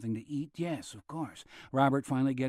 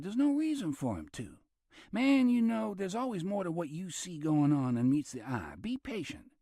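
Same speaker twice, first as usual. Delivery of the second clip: higher, easy persuasive character voice; talking Dennis into patience, lightly pitched up; Robert voiced; 7 semitones higher than usual. A narrator's reading. Robert reassuring Dennis, higher and easy.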